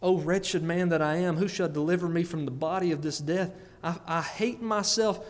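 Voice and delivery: mildly acted cry of self-reproach; a touch of anguish in preaching. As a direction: quote it as a wretched man's plea. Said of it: "Paul cries out".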